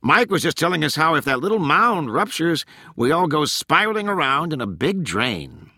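high-pitched, animated sarcasm; sarcastic, sing-song high retelling. A narrator's reading. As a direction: report the danger with mock cheer. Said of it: "Corky said sarcastically".

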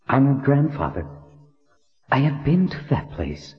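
put-on a reverent young woman asking. A narrator's reading. Heroine voiced in story.

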